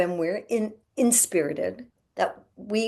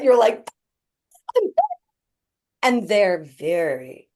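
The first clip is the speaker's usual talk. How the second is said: ordinary talk, nothing marked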